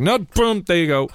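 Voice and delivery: high, bright burst of relief; a sudden high triumphant no boom. Retold or imitated. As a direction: pop it off with a flourish. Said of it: "I was like".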